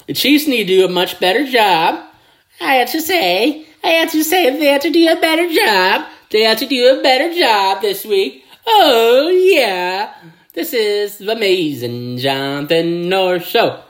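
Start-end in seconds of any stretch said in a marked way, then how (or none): 2.6-7.8 much higher and fast insistence; frustrated fan pleading; excited rant. Real, not acted. Exasperated rant at his team. 8.7-10.1 high, loud catchphrase cry; triumphant shout; excited whoop. Real, not acted. Signature celebration.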